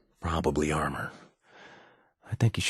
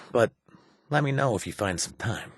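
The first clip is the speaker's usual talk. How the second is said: ordinary talk, nothing marked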